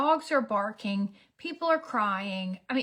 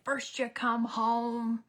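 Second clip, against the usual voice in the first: mock psycho rant; slower than usual. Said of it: "I did turn a little bit into a psycho".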